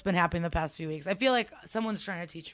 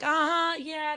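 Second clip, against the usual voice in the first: mocking uh-huh; 9 semitones higher, slower than usual. Mocking the laughing woman.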